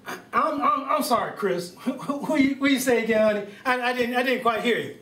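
mock confused grandpa fumbling for what was said; birthday man playing deaf to his wife's greeting; hard-of-hearing old man. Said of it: "to Jack Hadley".

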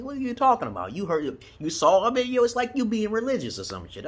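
high, loud disbelieving rant; incredulous outburst. Retold or imitated. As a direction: scoff at them, pitch way up. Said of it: "I'm like".

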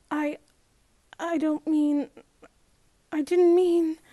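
rising panicked protest; flustered protest. Acted. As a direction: blurt it out before she's stopped. Girl protesting, cut off.

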